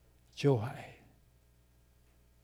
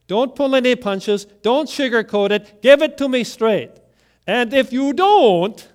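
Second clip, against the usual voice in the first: insistent demand; 6 semitones higher, 7 dB louder than usual. Acted. Eli demanding the hard truth.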